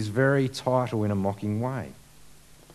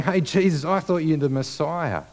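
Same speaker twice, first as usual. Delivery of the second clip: mocking taunt; 4 semitones higher, 3 dB louder than usual. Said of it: "they're saying".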